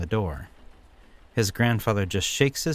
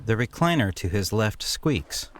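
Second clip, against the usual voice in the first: usual speaking voice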